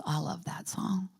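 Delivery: faint whisper from a tired man. Retold or imitated. Dying father whispering his love of the song. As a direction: breathe it out, exhausted.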